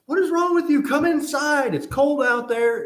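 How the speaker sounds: high, loud scolding at a dog; acted-out exasperated pet owner; exasperated yelling. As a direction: yell in mock exasperation, voice shooting up. Exasperated at runaway dog, retold.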